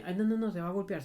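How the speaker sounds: lightly voiced worried parent; mildly mock a fretting parent; imitated fussing parent. Imita a un padre sobreprotector. (imitando levemente a un padre preocupado)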